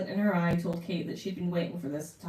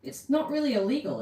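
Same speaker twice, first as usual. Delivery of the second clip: anxious high question; 7 semitones higher, 5 dB louder than usual. Acted. Kate worried question.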